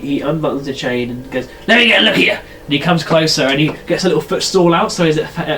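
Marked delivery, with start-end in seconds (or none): 1.7-2.3 put-on old gnome. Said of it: "a very old gnome".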